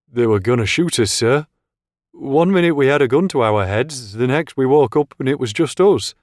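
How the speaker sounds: high, tense and rattled; shaken officer. Acted. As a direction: blurt it out still in shock. Shaken officer recounts the attack.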